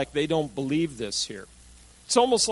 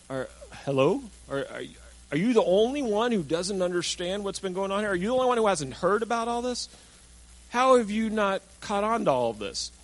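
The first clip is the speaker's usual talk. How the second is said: incredulous disbelief; 4 semitones higher than usual. Retold or imitated. Disciples astonished at stranger's question.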